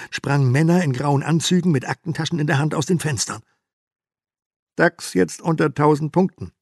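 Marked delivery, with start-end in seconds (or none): 4.8-6.5 loud, higher pundit voice; TV expert. Acted. TV expert announcing the crash, loud and higher. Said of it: "sagte der Börsenexperte im Fernsehen".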